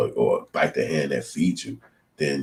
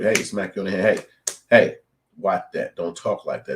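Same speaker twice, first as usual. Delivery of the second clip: mock scolding; 4 semitones higher, 4 dB louder than usual. Acted scolding by bosses.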